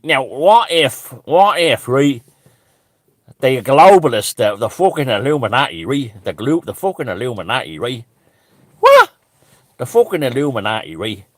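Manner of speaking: a hint of Deco's musing storyteller voice; Anton Deco impression. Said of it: "I'll do it in Anton Deco's voice".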